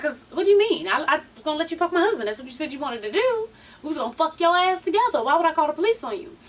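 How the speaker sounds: quick, indignant imitation; retold indignation. Cast member challenging an accusation, retold with quick indignation. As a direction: fire back fast, acting affronted.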